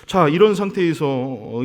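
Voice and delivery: ordinary talk, nothing marked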